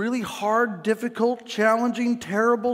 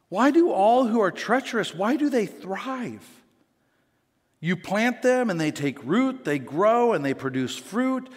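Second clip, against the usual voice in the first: complaining prophet; 2 semitones higher than usual. Retold or imitated. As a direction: voice the prophet's weary complaint to God. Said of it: "He's totally human".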